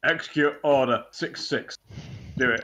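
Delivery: lightly put-on Yorkshire Emperor command; Yorkshire accent on the villain's order; mild Yorkshire, mock command. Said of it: "I'll do it in a Yorkshire accent".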